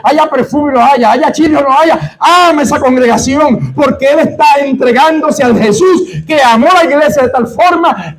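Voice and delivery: climax of the sermon, fervent; preaching at full force. Real, not acted. Preacher urging the congregation, rising fervent shout.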